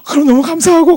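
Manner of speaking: very high, loud imitated gratitude; gushing thanks. Attendant thanking the passenger for praise, imitated high gushing. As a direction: squeal thanks, playfully exaggerated.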